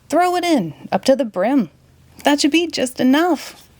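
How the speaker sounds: rally the gang, a touch shouty; werewolf rallying the kids. Acted. Werewolf urging the kids to fix the spaceship, eager call.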